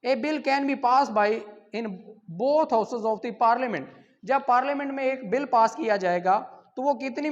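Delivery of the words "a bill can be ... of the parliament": dictating the exam question at half speed; slow dictation to the class; slow question read. Shown as a demonstration. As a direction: read the question slowly and clearly. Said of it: "question number nine है जी".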